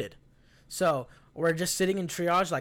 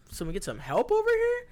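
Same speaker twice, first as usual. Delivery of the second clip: calling for help. Retold or imitated.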